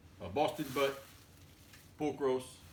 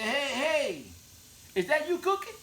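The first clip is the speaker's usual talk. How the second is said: much higher, louder excited hollering buddy; buddy shouting down the phone, pitched high; buddies calling; 12 semitones higher, 5 dB louder than usual. Retold or imitated. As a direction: holler it like a friend hearing cooking.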